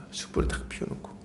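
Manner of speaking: a hushed aside about the charcoal fire; whispered echo. A narrator's reading. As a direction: repeat 숯불을 딱 피워놓고 in a soft whisper. Whispered repeat of previous line.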